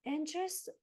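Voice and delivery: halting, slow words as the exercise takes hold; slowed, drowsy speech. Real, not acted. Coach with hand on forehead, speech slowing down mid-demo. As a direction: let the words drag and stumble as your mind slows. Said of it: "See, I can't even speak".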